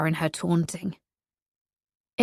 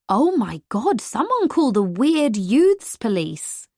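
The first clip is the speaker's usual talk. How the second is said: mock alarm; 4 semitones higher, slower than usual. Teasing him mockingly.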